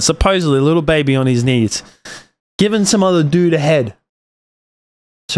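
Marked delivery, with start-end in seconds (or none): 0.0-1.8 Supposedly leaned on, doubtful; emphasis on supposedly. Real, not acted. Telling viewers about a rumoured clip, stress on Supposedly. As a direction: lean on the word Supposedly to cast doubt. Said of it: "Let's put an emphasis on that".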